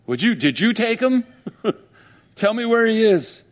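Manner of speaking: high, broken pleading with a catch of laughter; anguished begging. Acted. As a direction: plead through tears for his body. Mary begging the gardener.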